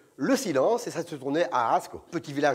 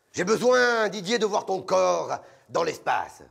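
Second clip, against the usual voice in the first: casting director voice; slower than usual. Retold or imitated. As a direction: insist with slow artsy weight. (directeur exalté, lent et appuyé)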